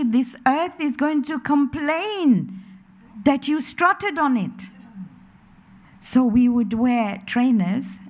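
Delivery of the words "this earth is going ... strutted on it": slow, raised-pitch warning from a grandmother; grandmother's admonition. Retold or imitated. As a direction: draw it out as a grandmother's solemn warning. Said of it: "she would say".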